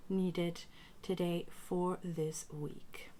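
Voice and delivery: deliberate ritual calling, paused between phrases; spoken invocation, slowing at the close; invocation of guides. Acted. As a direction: summon the guides in measured, prayerful phrases. Calls in spirit guides.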